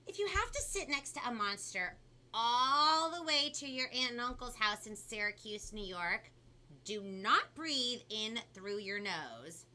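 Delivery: animated storybook reading with punched key words; lively, theatrical story narration; picture book read-aloud. A narrator's reading. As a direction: read it to children with big swoops of pitch. Reads picture book to children.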